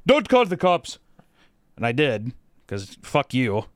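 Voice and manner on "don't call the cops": higher, louder mock pleading voice; mimicked driver. Mocking the driver begging him not to call the cops.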